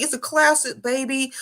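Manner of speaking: mock husband. Wife quoting husband on their old truck, lightly mimicked. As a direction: imitate a husband defending his old truck.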